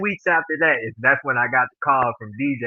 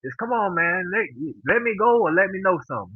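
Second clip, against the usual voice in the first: mildly exasperated pleading, higher pitch; retold spazzing out; 6 semitones higher than usual. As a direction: replay an impatient plea without raising volume. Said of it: "So I spazzed out".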